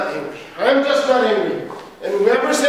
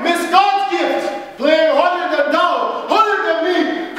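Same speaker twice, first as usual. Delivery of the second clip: slow mockery; 2 semitones higher, slower than usual. Mocking the partner.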